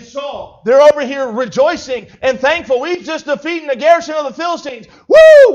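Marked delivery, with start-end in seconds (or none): 2.8-4.9 cheering, a touch raised; mock celebration. Israel celebrating victory. 5.1-5.5 high, loud whoop; victory whoop. Acted. Israel celebrating victory.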